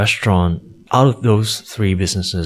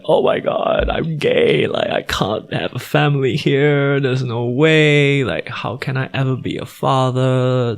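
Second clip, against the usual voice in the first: high, pleading mock-sob on the phone; tearful self-quote; 6 semitones higher than usual. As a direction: replay the crying call to dad, pitched up. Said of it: "and I was crying".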